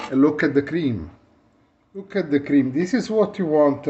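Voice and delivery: excited. Real, not acted. Italian showing off espresso crema.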